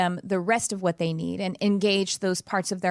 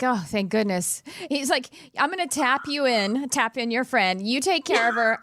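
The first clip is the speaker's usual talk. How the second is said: voicing the dog; 3 semitones higher than usual.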